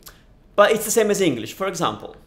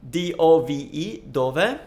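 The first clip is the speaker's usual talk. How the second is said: "dove" with stress on DO; stress on first syllable. Shown as a demonstration. Teacher spelling out the first word, stress on DO in "dove". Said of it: "like that".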